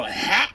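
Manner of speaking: short open-mouthed "Ha!" breath; breathy ha. Shown as a demonstration. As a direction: puff out a quick "Ha!" breath. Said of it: "the more you go".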